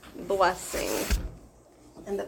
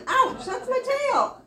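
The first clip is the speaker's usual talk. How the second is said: a much higher, louder laughing yelp; mock ouch; 12 semitones higher, 7 dB louder than usual. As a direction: squeal it with a laugh. Animal yelps about its tail.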